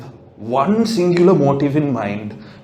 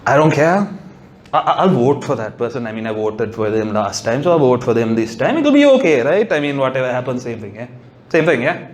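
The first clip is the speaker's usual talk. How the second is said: lackadaisical voter; 5 semitones lower, faster than usual. Retold or imitated. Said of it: "the lackadaisical people".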